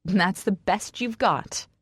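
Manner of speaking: slow, mildly bitter challenge. A narrator's reading. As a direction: drag it out in disbelief. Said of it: "I laugh bitterly".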